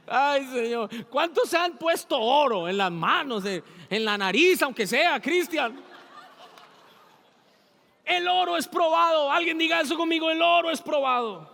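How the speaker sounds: loud, high preaching to the church; full-force preaching. Acted. Pastor rousing the congregation, loud and high. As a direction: preach it out with fire.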